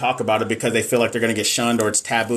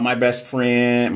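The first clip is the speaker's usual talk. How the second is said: drawn out; much slower than usual. Shown as a demonstration. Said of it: "why I say it like that?".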